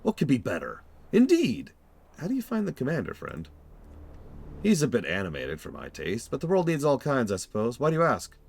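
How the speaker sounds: exaggerated thick German accent; jovial German-accented traveller. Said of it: "speak this very exaggerated, thick German accent".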